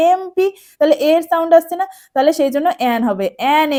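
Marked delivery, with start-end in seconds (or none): 0.1-0.5 এমপি repeated higher, leaning on the opening "e"; vowel-first M. Shown as a demonstration. Teacher repeating it for students, এমপি raised with the opening vowel clear. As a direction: lift and sound out এমপি as "em-pee". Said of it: "সাউন্ডটা এমপি বলছি না".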